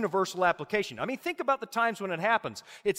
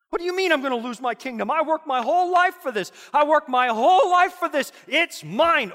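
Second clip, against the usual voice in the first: louder, higher, fast outraged king; indignant protest; 5 semitones higher, 4 dB louder than usual. Acted. Nebuchadnezzar protesting losing his kingdom, indignant and louder. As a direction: fight for what's yours.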